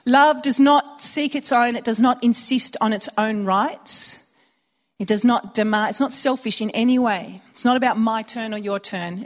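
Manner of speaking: solemn reading of the love passage; scripture recital. Acted.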